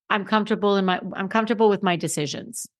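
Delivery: quiet, calm and certain; a calm, quiet statement of fact. Shown as a demonstration. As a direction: say it softly, settled and sure. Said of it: "I simply said very calmly".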